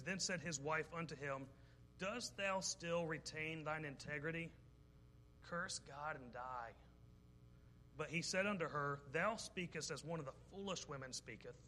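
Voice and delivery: slow, measured reading of the verse; preacher reading Job's wife's words aloud, measured; scripture reading. Acted. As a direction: read the King James lines deliberately. Reads Job 2 aloud.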